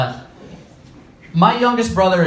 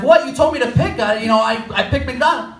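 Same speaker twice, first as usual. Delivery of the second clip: indignant disbelief; 6 semitones higher than usual. Retold or imitated. Indignant reply in argument.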